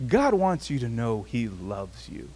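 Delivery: cocky, by-the-numbers delivery; self-assured. Retold or imitated. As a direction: say it like a formula you've done before. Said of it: "it was the same thing, but there was a difference".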